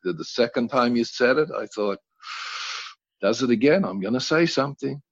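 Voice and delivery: lightly voiced mother recounting the swearing; mother's story. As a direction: tell it as a calm mom. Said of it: "And she went".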